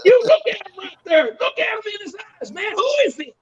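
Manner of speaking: very high, worked-up redneck voice; imitated redneck. Redneck urges Bubba to look, high mock voice. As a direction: squeal it in mock disbelief, high. Acts out redneck staring at him.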